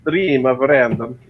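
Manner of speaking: imitated Finnish accent. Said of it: "The Finnish accent".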